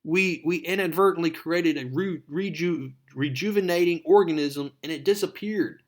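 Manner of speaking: high, stumbling, urgent admission; agitated confession. Retold or imitated. Connors confessing the lab accident to Peter, agitated. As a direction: blurt it out, acting agitated.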